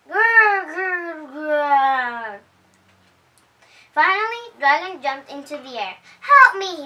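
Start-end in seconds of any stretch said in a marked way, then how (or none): 0.1-2.4 louder growl. A narrator's reading. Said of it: "The growling got louder and louder". 6.2-6.9 higher, louder frightened cry; screaming dragon. A narrator's reading. Scared Dragon jumps up, loud frightened cry for help. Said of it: "he screamed".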